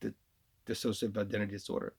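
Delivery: false starts on "dissociative", then the whole term; demonstrating a tongue-tied stumble; tripped up on dissociative. Shown as a demonstration. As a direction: stumble twice on "dissociative" before getting it out. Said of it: "we'll trip him up on dissociative".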